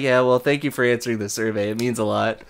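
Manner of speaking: quick, soft, offhand thanks; mock nonchalant rep brushing it off. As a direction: toss it off like nothing. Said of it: "Just so nonchalant".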